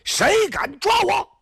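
high, slow drawn-out yell of defiance; big challenge shout. Acted. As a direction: bellow it slowly to the whole army. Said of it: "你再来一声".

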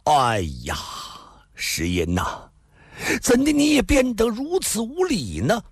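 exasperated lament. A narrator's reading. Husband laments his wife's rudeness, exasperated. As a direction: sigh rising to high-pitched exasperation. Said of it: "仰天长啸一声，顿足道".

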